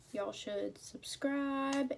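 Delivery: slow, drawn-out country twang; country accent. Real, not acted. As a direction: let a country accent slip in, slowly. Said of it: "I sound like I got a country accent".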